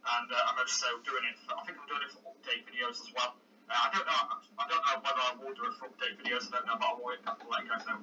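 rough, croaky throat. Real, not acted. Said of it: "Croaky voice".

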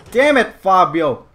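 loud, slow curse; exasperated yell. Real, not acted. Rider to his horse Fabio, exasperated. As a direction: scold the horse loudly.

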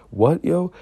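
loud, high incredulous question; retold disbelieving outburst; acted protest. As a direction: protest it, voice shooting up. His protest at dad's order.

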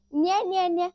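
put-on high baby-talk babble; imitating a toddler's high babble. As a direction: babble like a little girl refusing. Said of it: "तिच्या भाषेमध्ये".

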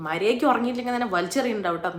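half-acted angry mother threatening the baby; retold angry threat. Tired mother scolding her sleepless baby at night, fast angry threat. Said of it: "അവസാനം എനിക്ക് ദേഷ്യം പിടിച്ചിട്ട്".

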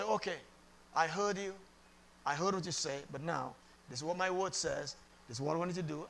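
quietly instruct, like a patient father; imitating God's calm, low answer; calm divine reply. Voices God answering him calmly.

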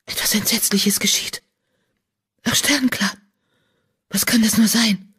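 hushed, fearful whisper; frightened whisper. A narrator's reading. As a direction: breathe the words in dread. Medicine cat senses horror.

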